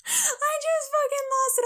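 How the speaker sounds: high, squealing through real laughter; cracking up, barely getting the words out; helpless laughter. Real, not acted. Telling friend about spitting water at dad's line, helpless laughter. Breaks up telling spit-take.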